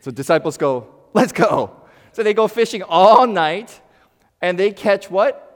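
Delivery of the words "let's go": loud, eager rallying cry; rally the group with a loud shout; acted-out keen reply; eager agreement. Disciples eagerly agree to go fishing.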